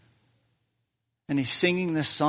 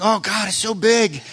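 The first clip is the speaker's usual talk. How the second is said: high, loud mock-frantic cry; hammed-up frantic exclamation; 5 semitones higher, 5 dB louder than usual. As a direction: act out a frantic outburst, pitched up and loud. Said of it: "we run around frantic going".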